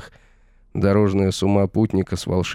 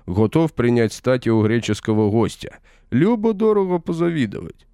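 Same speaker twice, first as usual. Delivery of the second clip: raised, mocking voice of a smug warrior; gloating villain; 3 semitones higher than usual. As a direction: taunt him from above, savouring every word. Villain mocks exposed hero at length.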